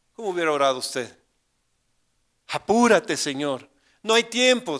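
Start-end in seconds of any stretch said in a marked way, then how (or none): 2.5-3.7 grito agudo y fuerte, apremiante; súplica urgente. Retold or imitated. Urgent imagined prayer. 4.0-4.8 grito agudo y fuerte de urgencia; que no queda tiempo, apremiante; súplica urgente. Retold or imitated. Urgent imagined prayer.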